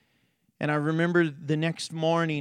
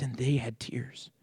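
whisper; 3 semitones lower, 6 dB quieter than usual. Real, not acted. Emotional moment in testimony.

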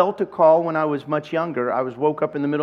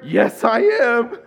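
proud affirmation; 8 semitones higher, 5 dB louder, much slower than usual. Retold or imitated. Proud reply about changed life.

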